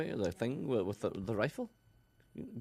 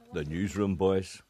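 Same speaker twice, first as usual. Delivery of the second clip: lightly imitated engineer, low and slow; Ken; 4 semitones lower, slower than usual. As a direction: slightly put on a colleague's slower voice. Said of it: "It's a pretty good impersonation".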